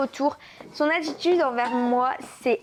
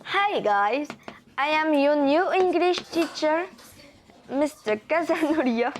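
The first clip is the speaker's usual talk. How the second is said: put-on French-accented English; 2 semitones higher than usual. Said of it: "bonjour mon accent".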